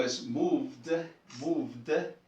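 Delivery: moved with the final D drawn out and voiced; moved, buzzing D at the end; exaggerated ending. Shown as a demonstration. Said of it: "estamos exagerando el sonido del sufijo".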